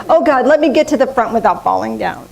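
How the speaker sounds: prayer said through a laugh, quickly; laughing mock prayer. Laughing through her nervous prayer before walking up. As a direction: giggle through a nervous plea.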